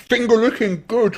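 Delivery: very high, loud speech around a full mouth. Retelling what a man said after turning round, mimicking talking with his mouth full. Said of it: "with a mouthful".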